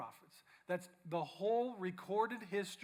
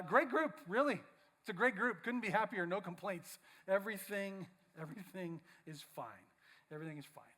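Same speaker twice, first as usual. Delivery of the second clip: forced cheer. Acted. Judas insisting all is fine.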